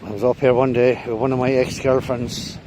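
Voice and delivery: breathless after the climb; winded, catching breath. Real, not acted. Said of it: "Oh, I'm still kind of out of breath".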